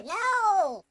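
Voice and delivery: high, loud, drawn-out wail; dismayed cry. Real, not acted. Losing in boss fight.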